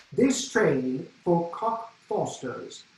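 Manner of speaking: slow, measured announcer imitation; lightly voiced English announcer; tube announcer. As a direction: mimic the train's announcement slowly. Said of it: "she keeps announcing".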